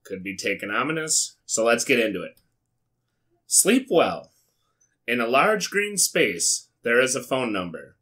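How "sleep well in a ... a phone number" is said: storybook reading. Acted. Reads the translated book aloud.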